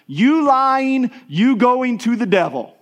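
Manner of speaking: mock very loud, high, shrill child's shout. A parent retells how the kids called out a sibling's lie, retelling a very loud shout. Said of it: "in a very loud voice".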